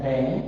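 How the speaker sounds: "ban" stretched out slowly; syllable demonstration. Shown as a demonstration. Teacher puts the vowel on the V, slowly sounding it out. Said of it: "When you put it on the V".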